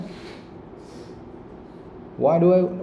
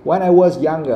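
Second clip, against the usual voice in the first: louder line with "younger" made important; stress on younger; 5 dB louder than usual. Shown as a demonstration. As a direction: make "younger" the key word. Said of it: "that's why he stressed that".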